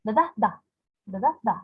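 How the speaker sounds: "Da da da" as two weak beats, then a strong DA; stress on last syllable. Shown as a demonstration. Teacher sounding out an anapestic foot, last syllable stressed. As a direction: run lightly to the third "da". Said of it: "two unstressed syllables followed by a stressed".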